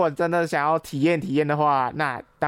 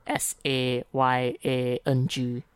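S A Y A N G spelled slowly letter by letter; spelling it out; much slower than usual. Shown as a demonstration. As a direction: spell S A Y A N G out carefully. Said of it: "怎么拼呢". (慢慢拼出每个字母)

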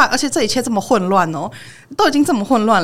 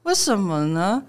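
slow, prying mock question; imitating the magician; 4 dB quieter, slower than usual. 模仿魔术师慢慢追问朋友为什么辛苦. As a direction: drag out the nosy why like a clueless stranger. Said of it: "你真的学得好像".

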